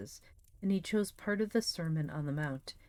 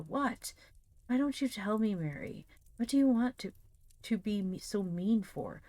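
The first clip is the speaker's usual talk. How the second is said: put-on peevish boy complaint; 5 semitones higher than usual. Tom whining at Mary.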